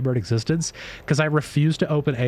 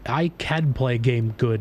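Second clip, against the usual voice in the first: slow dumb caveman boast; dopey slow caveman statement, falling; slower than usual. Acted. Dumb caveman gamer bit.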